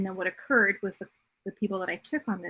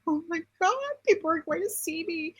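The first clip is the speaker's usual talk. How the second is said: retold sobbing; 8 semitones higher than usual. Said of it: "and I'm sobbing".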